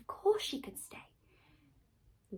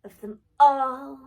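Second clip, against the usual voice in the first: much louder, higher, slow, laughing through the words; a wicked queen sure of victory, cackling; gloating; 5 semitones higher, 19 dB louder than usual. Acted. Gloating queen asks the mirror.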